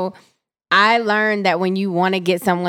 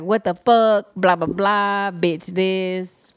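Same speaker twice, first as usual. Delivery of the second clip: mock angry rant; slower than usual. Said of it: "I just be like".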